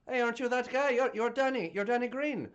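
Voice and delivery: lightly voiced little Irish kid; mock star-struck child in an Irish accent; excited kid. Kids addressing their local hero.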